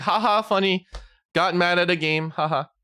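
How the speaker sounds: high, breezy mock chuckle; mock laughing it off. Brushing off a game loss, mock breezy chuckle. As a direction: shrug it off playfully. Mocking light reaction to gaming.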